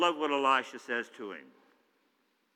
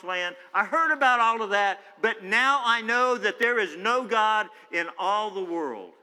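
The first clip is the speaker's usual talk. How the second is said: higher and louder, rising testimony; fervent confession; 5 semitones higher, 5 dB louder than usual. Acted. Naaman declaring faith before Elisha, rising fervent testimony. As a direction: testify with growing fire.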